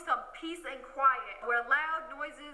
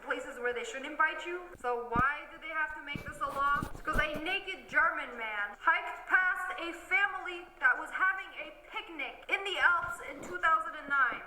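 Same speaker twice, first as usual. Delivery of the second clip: normal talking voice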